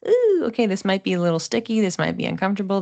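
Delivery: mock alarmed realization; wary ooh. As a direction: play the sudden uh-oh moment, then hurry on. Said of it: "these planets that we're talking about are like".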